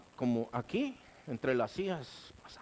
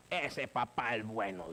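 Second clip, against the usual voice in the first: admiring youth; 4 semitones lower, 3 dB quieter than usual. Retold or imitated. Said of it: "dije yo".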